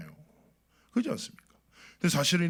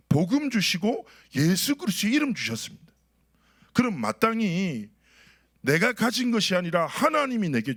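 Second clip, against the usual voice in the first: raised, emphatic sermon delivery; preaching; 4 semitones higher than usual. Real, not acted. Pastor proclaims God's gift to the congregation, preaching. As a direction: preach it with lifted pitch and firm projection.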